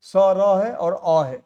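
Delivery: स, र है और अ है, each sound spaced out slowly; slow letter breakdown. Shown as a demonstration. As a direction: break स, र, अ apart slowly for students. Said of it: "इसमें कितने अक्षर देखो". (धीरे धीरे अक्षर गिनाते हुए)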